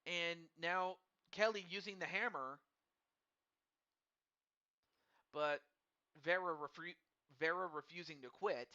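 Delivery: mumbling through peanut butter; mouth full of peanut butter. Real, not acted. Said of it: "I sound like I got peanut butter in my mouth".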